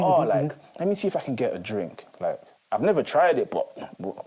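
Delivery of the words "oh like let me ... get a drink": put-on curious teen. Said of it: "we're thinking".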